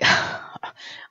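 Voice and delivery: big tired yawn; real yawn. Real, not acted. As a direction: let out a breathy, wordless yawn. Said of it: "I am yawning".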